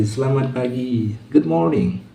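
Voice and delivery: high, with a cigarette in mouth. Real, not acted. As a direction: talk round a cigarette. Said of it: "Belajarnya santai sambil merokok".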